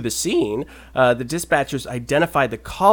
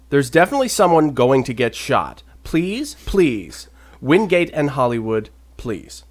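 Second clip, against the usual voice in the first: mildly pleading, composed emergency call; calm retold plea. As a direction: read a desperate plea without the panic. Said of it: "he did it in a much less calm voice, like I just did".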